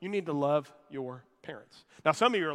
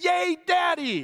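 put-on very high, loud six-year-old boy's cheering voice; 13 semitones higher, 6 dB louder than usual. Speaker retells a boy calling out from a theater box: high-pitched little boy voice. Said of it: "this high-pitched voice of a six-year-old boy".

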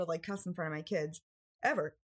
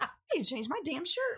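pitched-up, plain, matter-of-fact delivery; 8 semitones higher than usual. Retelling what a woman said, quoting her matter-of-fact remark. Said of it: "she said it's so matter of fact".

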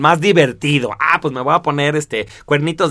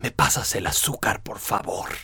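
whispered, breathy, seductive radio-commercial announcer voice; 7 semitones lower, 11 dB quieter than usual. Describing people who talk like radio announcers, sensual announcer voice. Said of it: "tiene una voz así, muy sensual".

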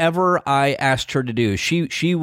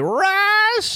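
rough, very high, drawn-out call. Recalling how Harriett used to call out the speaker's name, imitating Harriett's rough voice. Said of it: "she had this rough voice".

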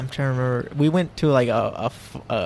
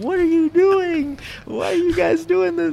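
put-on, very high-pitched, shrieking, screamed scolding tone; 3 dB louder than usual. Retelling how a woman walked in on their bloody fight: retelling a scream. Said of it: "she's like Screaming at us".

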